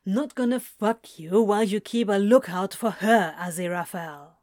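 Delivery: sharp, clipped retort. A narrator's reading. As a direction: snap it at him. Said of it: "Crowley says sharply".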